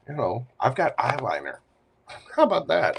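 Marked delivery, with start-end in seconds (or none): 1.9-3.0 quick, higher, laughing through it. Real, not acted. Admitting to viewers he owns eyeliner, laughing. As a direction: giggle at your own confession. Laughing at his own makeup talk.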